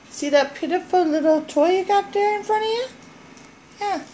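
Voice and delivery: high-pitched chatter to a pet; doggy talk. Real, not acted. Owner teases dog about a surprise, doggy talk.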